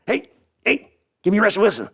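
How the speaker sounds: high, wheezy mock old owner demanding a player; Jerry Jones impression. Old Jerry demands a quarterback from his son, mock high voice. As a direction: whine like an old Texan oilman boss. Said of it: "Jerry and Sons impression".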